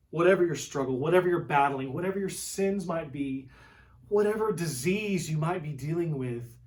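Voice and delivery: loud, building preacher's cry; rising preacher shout. Acted. Preacher rallying a struggling congregation, loud and building.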